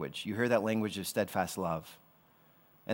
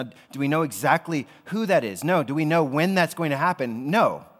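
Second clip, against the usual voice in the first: emphatic preaching; 4 semitones higher, 6 dB louder than usual. Real, not acted. Rhetorical questions building to emphasis.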